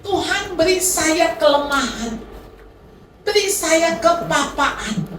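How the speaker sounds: slow, pleading prayer to God; earnest prayer. Retold or imitated. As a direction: pray it slowly, humbly. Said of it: "Jadi saat itu doa saya".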